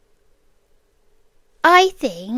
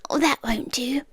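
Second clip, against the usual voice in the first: whispered; 6 dB quieter, faster than usual. Acted. Fussing over the tea.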